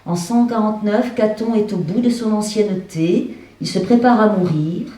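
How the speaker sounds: measured recitation, phrase by phrase; literary stage reading. A narrator's reading. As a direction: read it out to an audience, deliberately. Reads the text aloud on stage. (lecture littéraire à voix haute)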